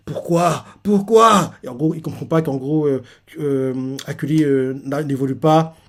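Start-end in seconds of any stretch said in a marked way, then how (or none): 0.1-1.5 despairing why. Retold or imitated. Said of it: "il fait".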